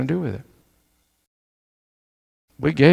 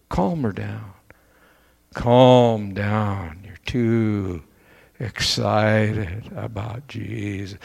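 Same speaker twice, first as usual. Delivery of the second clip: a softer, lower naysayer gently talking someone down; lightly voiced doubter smothering someone's passion; mock discourager; 4 semitones lower, 4 dB quieter than usual. Preacher mimicking a churchgoer who cools others' zeal, mildly patronizing. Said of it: "don't let anybody come and say".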